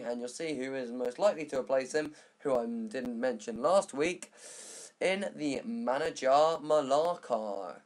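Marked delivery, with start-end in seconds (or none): 5.0-7.8 slow, slip into a poor Dorset accent; drawn-out, half-accidental Dorset twang. Real, not acted. Vlogger naming the new manager, in a slow mock Dorset accent. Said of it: "I said that in a Dorset accent".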